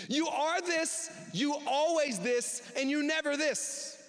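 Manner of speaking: slow, heavy mock quarrel; slow accusing slander. Shown as a demonstration. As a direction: drag out every charge with scorn. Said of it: "Here is what slander sounds like".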